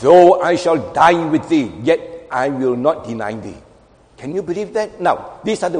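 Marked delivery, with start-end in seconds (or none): 0.0-3.6 measured boast falling to a low close; confident crowing. Acted. Preacher quoting Peter's vow to Jesus, confidently. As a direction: declare it with mild, sure emphasis. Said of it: "He crowed confidently".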